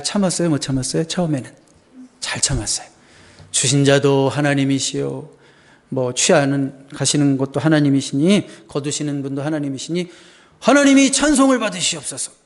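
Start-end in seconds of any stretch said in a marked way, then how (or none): 3.5-12.3 pious recital. Acted. Acting out Job's pious confession.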